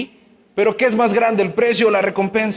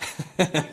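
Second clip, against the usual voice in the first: soft chuckle; 3 semitones lower, 8 dB quieter than usual. Real, not acted. Laughs after posing a question.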